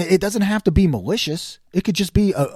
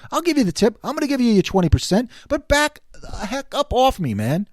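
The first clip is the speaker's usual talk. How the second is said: back off; 4 semitones higher than usual. Retold or imitated. Telling waiter to back off.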